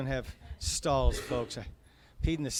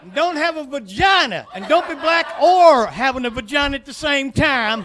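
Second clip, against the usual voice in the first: loud, high hick welcome, hammed up; redneck Alabama greeter; 9 semitones higher, 8 dB louder than usual. Alabama greeter yelling his welcome at visitors. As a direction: play a shouting good-ol'-boy tour guide.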